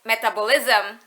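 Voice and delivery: "metabolism" with no stress on "tab"; the learner's "metabolism", second syllable left unstressed; former mispronunciation. Shown as a demonstration. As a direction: slowly say "metabolism" the Indonesian way. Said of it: "That's how I used to pronounce it".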